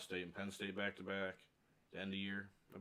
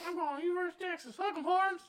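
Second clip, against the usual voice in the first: mocking valley girl; 12 dB louder, faster than usual. Mocking TikTok college girls.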